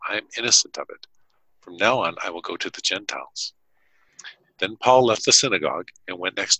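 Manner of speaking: measured Bible reading, paced; steady public reading of Acts; scripture reading. Acted. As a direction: read the passage to listeners. Reads scripture aloud.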